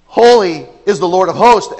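"Holy is the Lord of hosts!" with extra exclamatory punch on "Holy"; triple exclamation. Shown as a demonstration. Preacher demonstrating stacked exclamation points, emphatic. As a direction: give it triple exclamation force. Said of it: "exclamation point, exclamation point".

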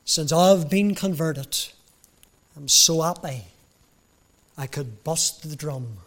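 put-on light Cockney accent, cheerful drummer; a hint of a Cockney drummer. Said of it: "In his Cockney accent".

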